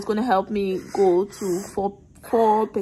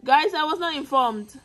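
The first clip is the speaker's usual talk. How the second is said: high-pitched appeal, falling at the end; mock-indignant protest; 6 semitones higher than usual. Real, not acted. Mother appealing to viewers after forced labor, mock-indignant. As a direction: start high and plead the grievance playfully.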